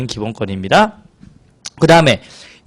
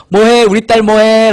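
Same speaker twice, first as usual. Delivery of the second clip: higher, slightly louder phone-call dad; lightly voiced dad; 5 semitones higher, 4 dB louder, slower than usual. Dad phoning his daughter, lightly acted checking-in. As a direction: stretch it like a doting dad checking in. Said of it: "아빠가 전화했어요".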